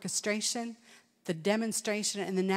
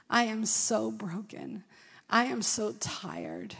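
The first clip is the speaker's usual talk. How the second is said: slow, soft and worn out; weary prayer; 4 dB quieter, slower than usual. Retold or imitated. Retelling a tired woman's prayer to God, slow and soft. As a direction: let each word sag with exhaustion.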